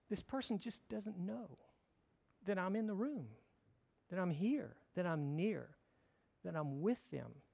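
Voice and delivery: softly voiced thought, phrase by phrase; tender musing. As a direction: think it aloud gently, with pauses.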